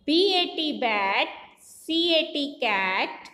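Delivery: slow spelling chant, each word stretched; phonic drill. Shown as a demonstration. Teacher drilling children in phonics, measured chant. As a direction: spell it out in a measured sing-song, last word falling.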